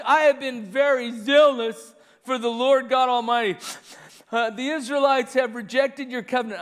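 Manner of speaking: mock-whining complaint with sniffles; sniffly, whiny plea to God; whining Elijah. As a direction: whine it like a self-pitying prophet. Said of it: "Do you see that whining?".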